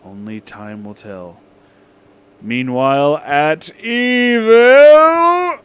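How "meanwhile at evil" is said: slow dramatic. A narrator's reading. Dramatic narration slowed.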